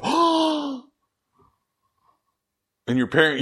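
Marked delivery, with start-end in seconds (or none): 0.0-0.8 very high, loud gasping oh; gasp of discovery. Retold or imitated. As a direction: shout out in sudden recognition. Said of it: "and you go, gasps".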